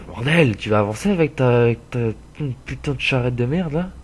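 loud, annoyed cursing at another driver; exasperated road rage; angry yelling. Real, not acted. Yelling at a slow truck in-game.

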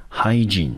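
hygiene with HY stressed, long e at the end; stress on first syllable. Shown as a demonstration. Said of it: "重音落在第一个音节".

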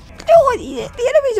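high, loud laugh through the words. Real, not acted. Player laughing while fighting enemies, high and loud. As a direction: burst out laughing as you say it.

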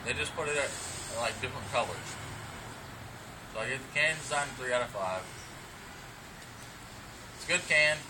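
talking around a dip in the lip; lip full of dip. Real, not acted. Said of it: "so I already got my dip in".

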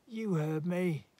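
high, firm last word; curt warning. A narrator's reading. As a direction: call it across as a warning. Neighbour's last shouted warning.

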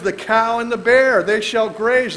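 emphatic scripture reading. Acted. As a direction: proclaim the verse with force. Rereading the verse.

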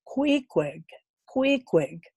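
calling out. A narrator's reading. Calling his name at door.

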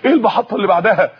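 quick "إيه المحطة اللي بعدها؟" that falls at the end; eager question. Acted. Eager young man asks back. ("إيه المحطة اللي بعدها؟" سؤال سريع متلهف)

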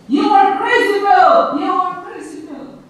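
high, loud storybook outburst; acted angry yell at a high pitch; angry shout. A narrator's reading. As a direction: yell the insult, easing off on the repeat. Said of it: "he became angry and shouted".

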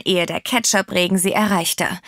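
usual speaking voice

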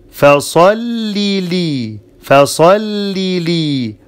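فصل لي with both lams clear, each with kasra; فصل لي with a doubled lam and kasra; double lam. Shown as a demonstration. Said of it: "There are two lambs".

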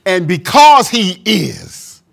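slow, weighted "is" at the end; measured demo; stress on is. Shown as a demonstration. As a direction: lean on "is", slow it down. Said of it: "I like to say it like this".

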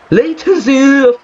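high, drawn-out curse; real anger. Real, not acted. Gamer cursing the latency, angry. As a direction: stretch the word in exasperation.

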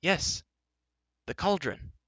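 high, emphatic confirmation; exasperated. A narrator's reading. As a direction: spell it out impatiently, high. Exasperated answer to Gwistel.

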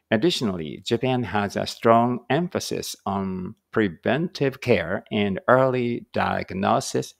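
slow, deliberate English read-aloud; slow careful reading. Shown as a demonstration. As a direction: read each phrase out slowly for learners.

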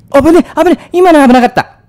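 startled high yelp; hit hard crying out. Real, not acted. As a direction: cry out in sudden fright. Startled by chasing enemy.

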